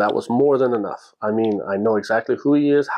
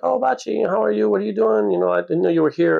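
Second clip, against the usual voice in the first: high, bright mock girly greeting, much higher; bubbly girls greeting; 11 semitones higher than usual. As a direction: squeal it like excited young women spotting a friend. Japanese models greeting him cheerfully.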